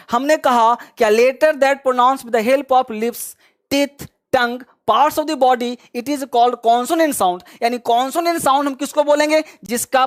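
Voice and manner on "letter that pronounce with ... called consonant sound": each word spaced out slowly for students to copy; slow dictation. Shown as a demonstration. Teacher dictating a definition to the class, slow and spaced.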